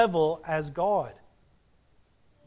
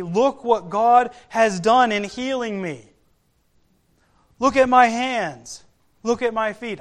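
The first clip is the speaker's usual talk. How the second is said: loud praise; 3 semitones higher, 4 dB louder than usual. Retold or imitated. Healed leper glorifying God, loud and excited. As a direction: proclaim it in mild imitation of an overjoyed man. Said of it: "he says loudly, in a loud voice".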